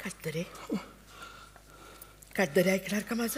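soft, hushed calming; quietly calm your husband down; soothing. Acted. Wife soothes distraught husband. (शांतपणे, हळुवार)

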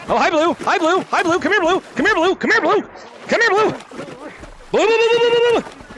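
high, singsong coaxing; playful luring. Real, not acted. Playfully luring player named Blue.

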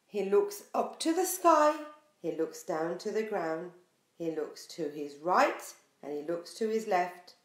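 lively, sing-song picture book reading; reading to children. Acted. Teacher reading a picture book to her class, sing-song. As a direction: draw little listeners into the story.

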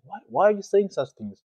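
high, loud, startled plea; urgent, pleading pushback at a friend; shocked disbelief. Retold or imitated. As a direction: react like you can't believe what she just said. Shocked reply to suicidal classmate.

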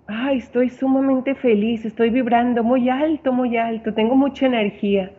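a hint of cheerful energy; mock happy reply. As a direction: sound lightly overjoyed. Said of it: "O al revés".

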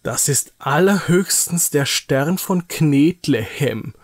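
slow, disdainful taunt; mock it with drawn-out contempt; scornful mockery. Nils sneering at Niki's balled-up clay star, mocking. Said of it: "spottet Nils mit einem verächtlichen Blick".

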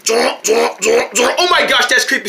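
slow, drawn-out shudder; creeped out. Acted. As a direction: recoil at something creepy. Creeped out by the eyes.

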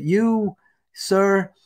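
high-pitched indignant scolding; mock outraged dressing-down; retold telling-off. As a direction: act out a woman laying into someone. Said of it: "she went off on him".

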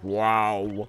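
slow, low, drawn-out "wow"; imitated crouch sound. Player copying the noise the game makes on crouching, slow imitation. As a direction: stretch it out slowly like a sound effect. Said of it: "It always makes a sound when I crouch".

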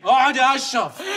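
loud order to sit; host ordering guest to stay, loudly; commanding shout. Acted. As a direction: bark it at the guest.

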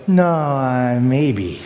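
"No, uh, maybe." trailing off unsure; wavering no. Shown as a demonstration. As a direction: let the no lose its nerve. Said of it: "now it needs to stop".

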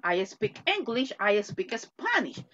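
slow, even classroom model; slow teacher demo of a simple sentence. Shown as a demonstration. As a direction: say each word slowly for the class. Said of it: "Yo hablo un idioma".

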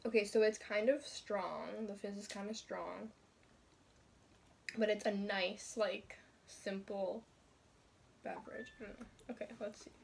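muffled behind cloth; through a bandana. Real, not acted. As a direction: face covered by fabric. Seen 2: Tie-dye bandana covers eyes to chin throughout the labelled words; lifted to sip.

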